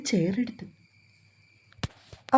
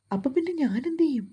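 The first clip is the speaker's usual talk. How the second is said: higher, upset pleading; mildly acted distress, pitched up; voice faltering; 5 semitones higher than usual. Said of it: "മാളുവിൻ്റെ ശബ്ദം ഇടറി".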